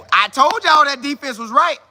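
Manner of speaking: excited boast. Real, not acted. Host boasting to his chat about the defense, excited. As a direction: crow about being right. Repeated boast, first take louder.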